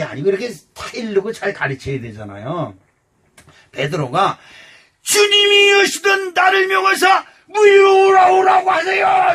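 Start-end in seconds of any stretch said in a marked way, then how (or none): 5.0-9.3 high, loud shout across the water; shouting Peter. Retold or imitated. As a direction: call out at the top of your voice. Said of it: "이렇게 소리 지릅니다". (베드로가 물 위의 예수님께 소리치듯 높고 크게)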